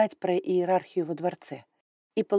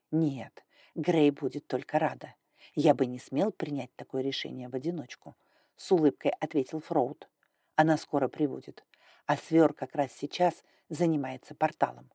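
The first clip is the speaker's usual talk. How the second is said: lower, calm kind dragon; lightly voiced older man; 4 semitones lower than usual. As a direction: speak low and gently.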